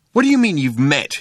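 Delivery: angry demand. A narrator's reading. Ford rounds on Arthur, demanding angrily. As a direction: demand an explanation, rising in pitch. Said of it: "he demanded".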